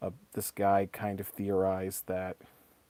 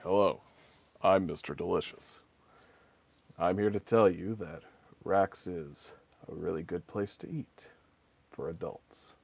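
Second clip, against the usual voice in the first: low, flat deadpan pitchman; 4 semitones lower than usual. Retold or imitated. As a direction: lower and drier, like a mascot ad. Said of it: "just in a deadpan voice would just go".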